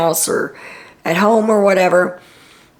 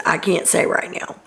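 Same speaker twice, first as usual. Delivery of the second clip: whispering; 4 dB quieter than usual. Retold or imitated. Amira answering Kyle secretly.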